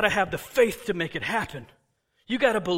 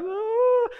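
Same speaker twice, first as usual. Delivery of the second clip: mock wail; 4 dB louder than usual. Mourners crying.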